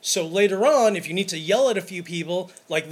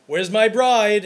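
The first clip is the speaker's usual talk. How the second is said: excited greeting; 4 semitones higher, 9 dB louder, slower than usual. Retold or imitated. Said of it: "I'm like".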